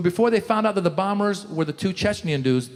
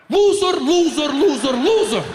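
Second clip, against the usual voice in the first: mock Chechen uncle shouting, higher and louder; imitated angry uncle; 7 semitones higher, 4 dB louder than usual. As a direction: bark it at the reporters like a furious uncle. Uncle ranting at press conference.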